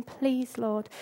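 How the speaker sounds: hushed, humble plea to the Lord; soft pleading. Retold or imitated. A woman at Jesus' feet begging, softly hushed.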